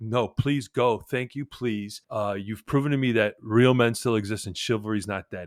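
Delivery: tearful, crying, begging voice. Retelling a woman's plea for the speaker to leave: imitating someone crying. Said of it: "She's crying".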